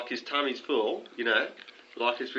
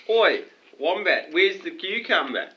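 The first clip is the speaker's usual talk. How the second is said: calling out; 6 semitones higher, 5 dB louder, slower than usual. Retold or imitated. Calling out to Wombat.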